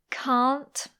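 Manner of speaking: can't with a clear final T; careful can't. Shown as a demonstration. Teacher demonstrating a careful can't to learners. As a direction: sound the T at the end of can't. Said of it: "I don't usually pronounce the T".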